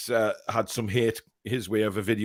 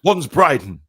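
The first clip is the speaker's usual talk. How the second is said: high, loud mock posh voice; hammed-up royal accent; posh impression; 9 semitones higher, 9 dB louder than usual. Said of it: "Alex's English ... Prince Charles".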